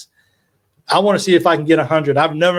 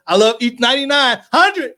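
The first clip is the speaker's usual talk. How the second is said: overjoyed; 7 semitones higher than usual. Real, not acted. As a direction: pitch leaps higher on hundred. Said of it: "didn't mean to be emotional".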